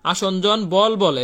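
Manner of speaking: slow, deliberate dictation of আসঞ্জন বল বলে; slow dictation pace. Shown as a demonstration. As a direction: spell out আসঞ্জন বল বলে word by word, slowly. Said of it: "আসঞ্জন শক্তি বলে না".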